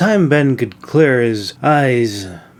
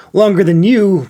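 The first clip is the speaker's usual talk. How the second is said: huffy; 7 semitones higher, 4 dB louder than usual. A narrator's reading. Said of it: "Brumir huffed".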